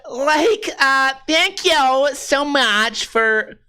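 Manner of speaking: put-on botched, drawn-out California accent. Comic showing how Californians talk, badly done California accent. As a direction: attempt a Californian accent and drift toward Borat. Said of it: "then you get the fucking California".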